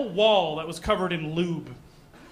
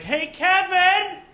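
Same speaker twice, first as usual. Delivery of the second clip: higher, louder call with gibberish at the end; calling to another room; 8 semitones higher, 4 dB louder, slower than usual. Pretend. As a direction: yell it across the house. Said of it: "Let me give you an example".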